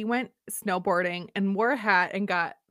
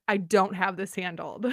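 lower, matter-of-fact inner voice; understated honest acknowledgement; plain admission; 3 semitones lower, 4 dB quieter than usual. Retold or imitated. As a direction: admit it to yourself, low and level. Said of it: "acknowledge that it's, that it's not".

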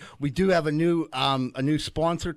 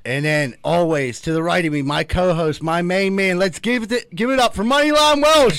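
grand entrance announcement; 7 dB louder than usual. Pretend. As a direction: hype the crowd, rising to the name. Boxing-style intro of co-host.

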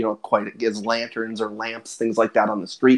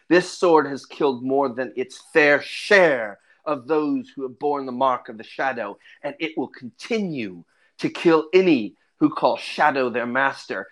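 menacing ranger. Acted. Ranger threatens with his blade.

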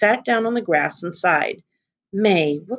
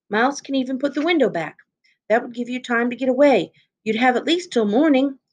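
high, eager and quickening; eager girl; 6 semitones higher than usual. A narrator's reading. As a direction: she races to share her idea. Girl eagerly offers her plan.

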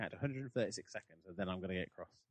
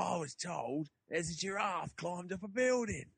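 slow, higher mock Australian raccoon voice; Australian accent; 10 semitones higher, 4 dB louder, slower than usual. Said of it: "no, he's Australian".

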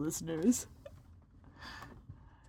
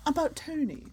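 gossiping; 2 semitones lower than usual. Pretend. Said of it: "when you say it like that".

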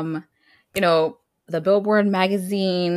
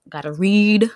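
emphatic declaration; 5 dB louder than usual. Retold or imitated. Host quoting own thought on the magazine, emphatic. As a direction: punch and stretch "read". Same words repeated, louder then whispered.

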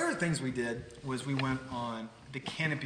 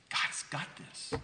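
whispered, slow "God's got this"; hushed refrain; slower than usual. Real, not acted. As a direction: breathe it to the congregation. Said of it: "preacher's refrain".

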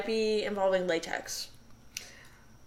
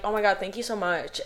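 monotone voice. Shown as a demonstration. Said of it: "I sound sarcastic when I'm, like, trying to be sincere".

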